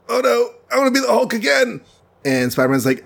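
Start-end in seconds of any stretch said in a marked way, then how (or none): 0.1-1.8 very high put-on wail; mock dismay. Banner laments to Spider-Man, high mock dismay. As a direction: squeal it in comic distress.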